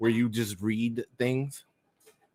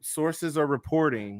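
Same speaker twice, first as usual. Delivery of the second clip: slow, measured newscaster phrasing; news-report delivery; 3 semitones higher, slower than usual. Shown as a demonstration. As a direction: spell it out carefully like an anchor. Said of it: "I know the way you can say it".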